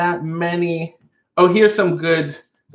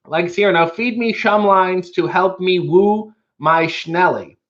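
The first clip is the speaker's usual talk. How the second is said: mushy cartoon cat voice; 4 semitones higher than usual. Shown as a demonstration. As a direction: slur the s sounds like a smitten cartoon cat. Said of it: "I get to read it like this 'cause they write them in weird ways".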